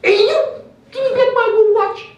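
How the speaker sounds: high, loud mock yell after a thief; robbed man shouting. Robbed man yells after fleeing chain thief, acted high shout. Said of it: "the big black guy goes".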